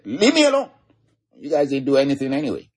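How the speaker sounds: sharp high shout at his brothers. Acted. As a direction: snap back at them to leave him alone.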